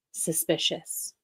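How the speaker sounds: lightly mocking her "Suspicious"; a hint of Shelley's drawled word; imitating Shelley. Mocking how Shelley will say it, lightly voiced. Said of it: "to hear her say".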